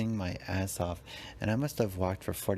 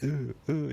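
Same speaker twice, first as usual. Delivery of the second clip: hype noises; 5 semitones higher than usual. Retold or imitated. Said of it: "you know, like, noises".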